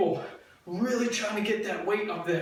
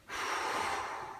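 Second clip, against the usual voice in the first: strained sigh; 9 dB quieter than usual. Real, not acted. Straining through ab exercise.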